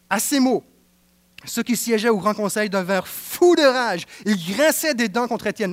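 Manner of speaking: reads the verses aloud with weight; solemn Bible reading; scripture reading. Acted. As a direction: read the passage to the congregation.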